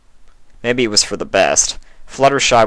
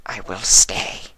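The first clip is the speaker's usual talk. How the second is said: slow, flat changeling voice; slow and eerie; Sympathy's voice; 3 dB quieter, slower than usual. A narrator's reading. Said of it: "said Sympathy".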